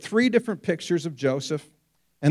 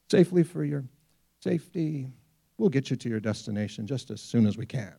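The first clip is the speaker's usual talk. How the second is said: low, quiet, smooth captain's voice over the intercom; unruffled pilot on the PA, lightly imitated; calm pilot announcement; 4 semitones lower, 4 dB quieter, faster than usual. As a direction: soothe the cabin like an airline pilot. Pilot voiced during turbulence.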